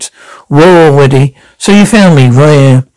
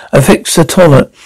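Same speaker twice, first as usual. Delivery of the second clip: low sexy voice; 2 semitones lower than usual. Acted. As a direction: lay it on low and sultry. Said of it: "Could you say that in the low, that low, slow, deep, low, deep, sexy voice again?".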